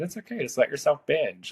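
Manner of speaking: casual tone. Retold or imitated. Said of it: "in the most, like, casual tone".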